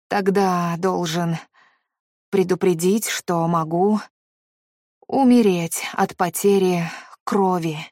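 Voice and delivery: flat, matter-of-fact and slow; detached businesslike. A narrator's reading. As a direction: state it like a business memo. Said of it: "говорил с такой отстранённой деловитостью".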